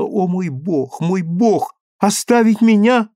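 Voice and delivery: high, loud, desperate pleading; a girl begging her lover, high and loud; passionate plea. A narrator's reading. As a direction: cry out to him not to leave her. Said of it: "и страстно сказала".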